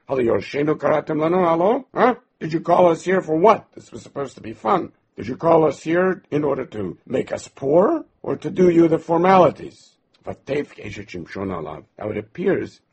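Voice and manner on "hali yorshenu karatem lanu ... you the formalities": higher and louder, accusing the wife; mock outrage at the bride; indignant demand. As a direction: guests confronting the bride, indignant. Guests indignantly confront Shimshon's wife.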